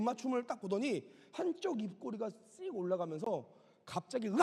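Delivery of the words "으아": sudden mimicked shriek; mock possessed cry; imitated scream. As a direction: let out a sudden acted scream. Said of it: "소리를 지르시는 거예요".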